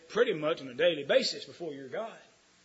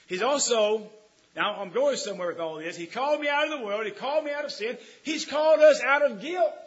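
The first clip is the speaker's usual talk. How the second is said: booming sermon delivery; full-force preaching; 7 semitones higher, 9 dB louder than usual. Acted. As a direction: preach it out to the pews. Preaching builds.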